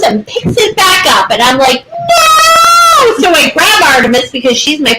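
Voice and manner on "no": sharp no. Retold or imitated. Owner yelling no at her puppy, high shout. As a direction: snap a panicked no at the dog. Stopping puppy grabbing chipmunk.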